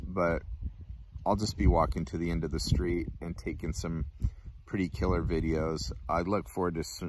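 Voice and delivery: talking around pipe stem; pipe stem at lips. Real, not acted. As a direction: pipe held to mouth. Seen 4: Stem rests at mouth corner while talking, lowered briefly at times.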